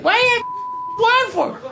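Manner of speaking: very high squawky wife voice; squawking duck wife. Acted. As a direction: screech it as an outraged duck wife. Acting out the duck's wife.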